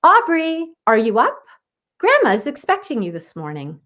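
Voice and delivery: a lightly voiced mother calling her daughter; mom calling. Mother calling daughter down for Grandma's visit, lightly voiced. Mom calls upstairs to Aubrey.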